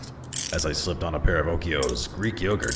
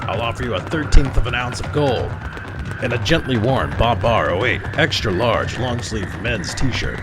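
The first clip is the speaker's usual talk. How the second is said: higher, louder bargaining shout; shouted offer; 7 semitones higher, 7 dB louder than usual. Acted. Detective shouts a bribe at the fleeing man, loud. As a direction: yell the deal after him.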